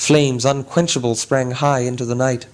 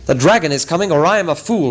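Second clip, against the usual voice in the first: urgent warning, higher and a bit louder; crying out; 4 semitones higher, 3 dB louder, faster than usual. Acted. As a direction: raise the alarm. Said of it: "he cried".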